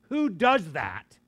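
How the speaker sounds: loud, slow, drawn-out emphasis; pressing question. Real, not acted. Preacher challenging listeners about causing others to sin, slow insistent push. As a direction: lean hard on each word.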